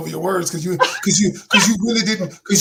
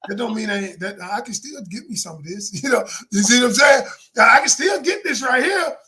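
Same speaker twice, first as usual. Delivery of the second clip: playing the guy. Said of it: "I'm sitting here like".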